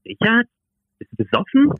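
shrill, shocked disbelief; high-pitched disbelieving question; incredulous. Acted. Colleague shocked by drunk call.

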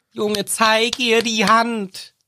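slow, high pleading urge to Harry; drawn-out imploring plea; mock urging thought. Fan silently urging Harry to show his hand, slow high plea. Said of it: "ich denk mir die ganze Zeit nur".

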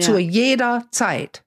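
slow, stressed phrase set apart; deliberate and measured; emphatic. Real, not acted. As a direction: drive the point home slowly. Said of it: "Ich kann es nur betonen".

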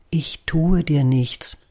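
slow, gentle and calming; hushed reassurance; soft soothing voice. Acted. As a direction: coax a shy bird softly. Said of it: "mit einer leisen, möglichst beruhigenden Stimme".

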